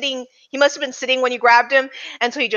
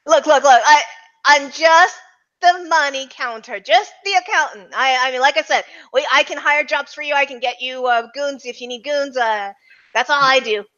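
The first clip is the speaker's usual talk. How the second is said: higher, stammering accountant voice; nervous accountant; 3 semitones higher than usual. Acted. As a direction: plead in a higher voice, tripping over words. Game master voices pleading accountant.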